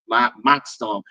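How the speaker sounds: comic tirade, punching every new complaint; mock exasperated rant. Host listing petty audience complaints, mock exasperation.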